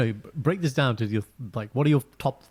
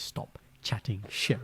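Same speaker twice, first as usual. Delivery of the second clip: slow mock retort; 2 semitones lower, 7 dB quieter, much slower than usual. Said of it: "when a rapper says".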